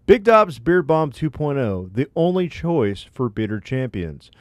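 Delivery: upbeat sponsor ad voice; ad read. Acted. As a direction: read it like a radio ad. Reads a sponsor ad.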